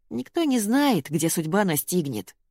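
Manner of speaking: plain reading voice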